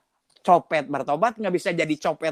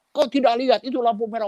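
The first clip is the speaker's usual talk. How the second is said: fierce policeman; 5 semitones higher than usual. Retold or imitated. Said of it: "Orang Batak galak-galak".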